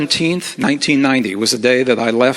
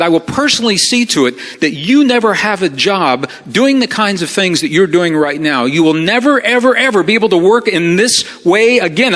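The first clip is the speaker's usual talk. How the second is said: imitated angry threat, climbing in pitch; really upset, condescending; 4 semitones higher than usual. Boss threatening to blackball employee, upset. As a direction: build the warning toward the end. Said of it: "Now he's really, really upset".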